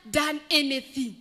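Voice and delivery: bitter beggar turning on his helper; resentful beggar. Acted. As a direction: build up the grudge. Beggar decides to refuse.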